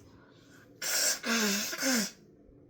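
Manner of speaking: loud nose blow. Real, not acted. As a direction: blow your nose hard. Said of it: "why am I blowing my nose on camera".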